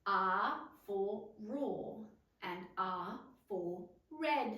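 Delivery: R for roar slow and stressed. Shown as a demonstration. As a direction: roar and red said slowly. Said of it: "The letter R makes the".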